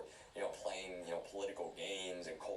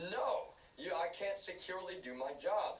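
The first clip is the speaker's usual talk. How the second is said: much higher, indignant protest; exasperated retort; 10 semitones higher than usual. Retold or imitated. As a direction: fling back a high, incredulous refusal. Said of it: "I'm like".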